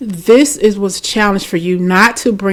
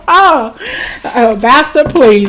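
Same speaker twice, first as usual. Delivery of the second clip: sudden exclamation; 6 semitones higher, 6 dB louder, slower than usual. Real, not acted. Outburst after a near-slip.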